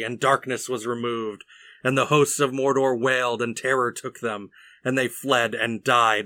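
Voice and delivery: epic story narration, punching the key words; emphatic reading of a heroic passage; reading aloud. A narrator's reading. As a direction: read the charge aloud with steady, rolling drive. Reads the book aloud.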